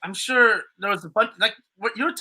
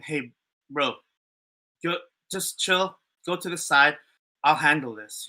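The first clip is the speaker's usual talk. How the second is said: calm; 4 semitones lower than usual. Retold or imitated. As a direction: ease him down gently, like the laid-back guy. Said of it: "but I was calm".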